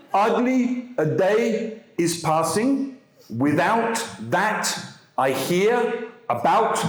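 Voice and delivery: put-on a light French accent, slow and groping for words; slow, halting French-accented English. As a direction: lightly imitate a French student translating back haltingly. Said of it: "basically by speaking French in English".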